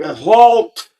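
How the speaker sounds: sharp high shout of halt; retold shout to stop a dog; yelled command. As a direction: bark it at the charging dog. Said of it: "I'm like".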